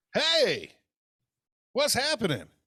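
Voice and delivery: very high-pitched, shrill, swooping loud yell. Opening the show and greeting the others: yelling. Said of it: "Why are you yelling at me?".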